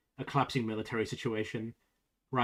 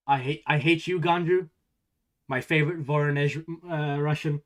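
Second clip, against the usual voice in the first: mock hate; 4 semitones higher, 7 dB louder than usual.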